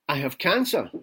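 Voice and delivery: lightly put-on American accent; terrible American accent. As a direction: announce it in an amateur American accent. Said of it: "my terrible American accent".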